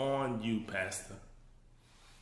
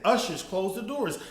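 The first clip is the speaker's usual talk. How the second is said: imitating the preacher's command; 2 semitones higher than usual. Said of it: "the man said".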